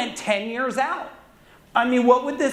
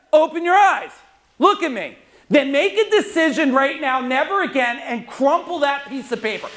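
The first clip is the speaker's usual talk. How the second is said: raised, urgent call to the room; fired-up command; 3 semitones higher than usual. Real, not acted. Speaker rouses audience after exercise.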